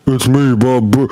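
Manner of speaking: rising to a high drawn-out yell; yelled Bob from Bob's Burgers. Retold or imitated. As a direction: build from flat to a shout. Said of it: "it sounded like Bob from Bob's Burgers".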